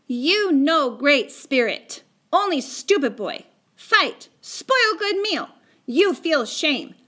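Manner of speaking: high, slow, wailing reproach; indignant wail. A narrator's reading. Little Bear shaming boys over spoiled meal, indignant wail. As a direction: wail out each short accusation slowly and high. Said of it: "out a wail".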